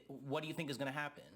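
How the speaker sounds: ordinary talk, nothing marked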